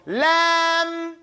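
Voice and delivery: "Lam" on a sustained level note; measured letter length. Shown as a demonstration. Teacher correcting students' length, sustained chanted "Lam". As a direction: hold "Lam", but not too long. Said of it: "Not too long".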